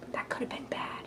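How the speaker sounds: tiny unvoiced whisper to self; whispered aside. Real, not acted. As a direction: drop right down, as if relieved to have stopped in time. Aside after nearly saying too much.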